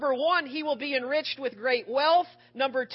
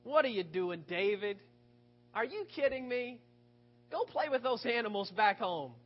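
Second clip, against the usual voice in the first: put-on scolding older brother; 3 semitones lower than usual. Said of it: "that sounds a little bit familiar".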